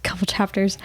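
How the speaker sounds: after crying. Real, not acted. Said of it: "teary thinking about it".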